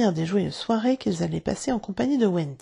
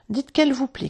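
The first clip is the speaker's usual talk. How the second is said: shouting; 6 semitones higher than usual. Acted. Boy calling out to Wendy to say she likes it, eager cry. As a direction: call out to her, eager. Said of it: "cria Bonzik".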